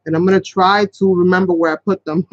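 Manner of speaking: playful emphasis on try; stress on try. Shown as a demonstration. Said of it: "Emphasis on the word try".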